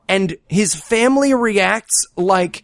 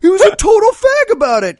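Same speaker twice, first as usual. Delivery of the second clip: higher, louder, faster whine; hammed-up indignant squeal, higher and louder; mock high whiny Ted; 13 semitones higher, 4 dB louder, faster than usual. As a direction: squeal it out like a petulant zealot. Mocking Ted's reply.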